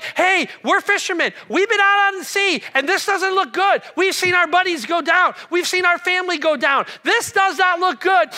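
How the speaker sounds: high, loud, agitated protest; freaking-out fishermen. Acted. Frightened fishermen demanding help from Jesus in a storm, freaking out. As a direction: plead at full voice, pitched well up. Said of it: "These guys were freaking out".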